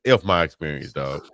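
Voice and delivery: dropping low and blunt on F my experience; shrugging it off, low and blunt; mock dismissive. Real, not acted. Host to cohosts, low mock dismissive brush-off.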